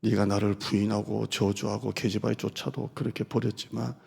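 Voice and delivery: quiet tender pleading; tender question. Acted. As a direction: ask it softly with sorrow. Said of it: "나는 항상 아직도를 넣어요".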